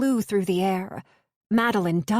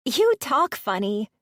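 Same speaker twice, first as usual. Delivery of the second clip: put-on little girl giggle; 4 semitones higher than usual.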